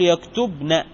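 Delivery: يكتبن as yaktubna, ending on a clear a; voweled nun. Shown as a demonstration. Teacher showing the nun's vowel, يكتبن as yaktubna. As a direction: say يكتبن with a single n and short -na. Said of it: "متحركة بالفتح".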